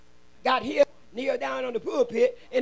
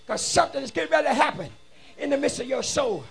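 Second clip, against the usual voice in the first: urgent preacher's proclamation; driving, rhythmic preaching with punched words; fervent preaching; 4 semitones higher, 7 dB louder than usual. Real, not acted. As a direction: proclaim it forcefully to the congregation. Preaches to congregation.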